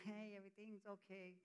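put-on cheery voice, all is fine; fake smile. Hiding sin behind a smile, falsely cheery. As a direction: pretend everything's okay with a smile. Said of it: "That's exactly the smile".

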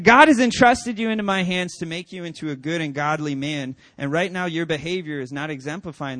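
loud declaration, easing toward the end; emphatic mock-stern pronouncement; retold fatherly proclamation. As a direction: start big and preachy as the acted dad. Father's retold speech to son.

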